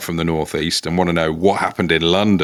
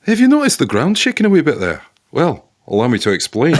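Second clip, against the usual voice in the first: higher, hammed-up Scottish accent; Scottish Italian accent; 6 semitones higher, 3 dB louder, faster than usual. Host plays Italian earthquake expert, in a hammed-up Scottish accent. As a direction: join in with an excitable put-on Scottish voice. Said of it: "Scottish Italian".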